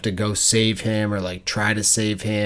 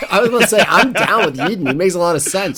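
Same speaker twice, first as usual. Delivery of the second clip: laughing; 9 semitones higher, 6 dB louder, faster than usual. Real, not acted. Mock agreeing with villain.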